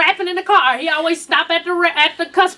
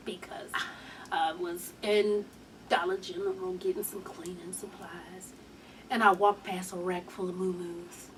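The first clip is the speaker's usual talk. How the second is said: mock sad hush; 10 semitones lower, 16 dB quieter than usual. Real, not acted.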